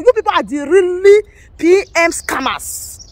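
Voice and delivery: slow, deliberate accusing rant; angry scolding. Real, not acted. Scolding Biafra agitators, slow and scornful.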